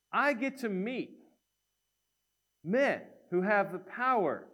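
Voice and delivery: high, mock-amazed delight; faux-delighted ironic greeting; ironic wonder. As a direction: gush over meeting them as a joke. Clarence's ironic joke.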